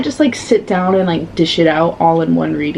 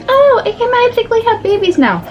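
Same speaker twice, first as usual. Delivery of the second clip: high, sarcastic sing-song mimicry; mock the cheesy plot twist; 12 semitones higher than usual. Reader mocking a magical fertility twist, high sarcastic voice. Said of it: "Not like".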